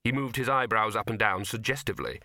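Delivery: plain reading voice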